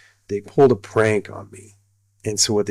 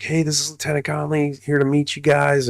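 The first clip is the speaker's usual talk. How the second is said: imitated high-pitched introduction; highest voice; 5 semitones higher than usual. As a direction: mimic him in a raised, lighter pitch. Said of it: "he's got the highest voice".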